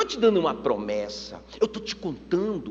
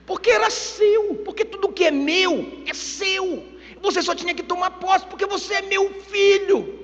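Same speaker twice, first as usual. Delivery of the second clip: exasperated insistence; 12 semitones higher than usual. Acted. Father tells older son it was always his, exasperated insistence. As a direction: press the point, pitch way up.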